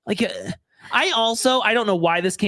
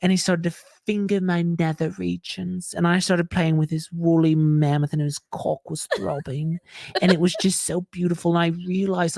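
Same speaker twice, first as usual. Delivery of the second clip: mock dreamy romance. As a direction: ham up a breathless love story, lightly. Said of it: "I just wanna perform it for you".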